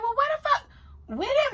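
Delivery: retold disbelief. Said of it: "And when I was like".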